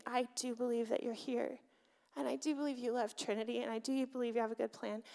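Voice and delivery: quiet affirmation of faith; soft sincere prayer. Retold or imitated. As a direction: softly tell God what you believe. Retold quiet prayer to God.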